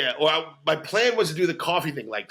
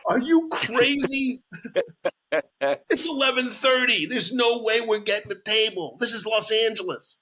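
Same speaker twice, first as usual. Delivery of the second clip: imitating his wife in a high witch voice; 7 semitones higher than usual. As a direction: whine it like a cackling witch. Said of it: "a witch voice".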